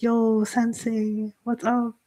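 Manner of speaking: long drawn-out 'yo', easygoing and friendly; mock-exuberant, slowly stretched hello; exuberant American greeting. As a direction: imitate a chummy visitor, stretching each greeting. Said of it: "like, the Americans come".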